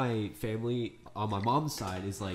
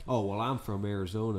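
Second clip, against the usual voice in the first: put-on Southern accent; 2 semitones lower than usual. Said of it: "unless they're like".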